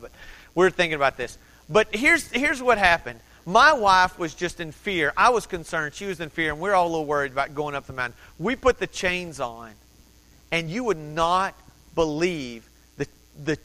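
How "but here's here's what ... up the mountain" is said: ordinary talk, nothing marked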